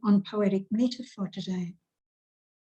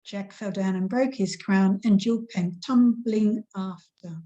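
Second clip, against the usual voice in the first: nursery rhyme recital. Shown as a demonstration. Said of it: "and another nursery rhyme".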